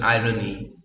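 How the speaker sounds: "irony" as eye-ruh-nee; three clear syllables in "irony", r sounded; correct pronunciation of irony. Shown as a demonstration. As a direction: say "irony" with r opening the middle syllable. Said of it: "You have to pronounce it".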